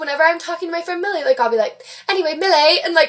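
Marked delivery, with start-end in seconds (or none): 2.1-2.8 put-on lightly slipping into a British accent; British friend's accent. Talking to friend Millie, imitated British accent. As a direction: pick up a touch of British accent. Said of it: "there's this accent".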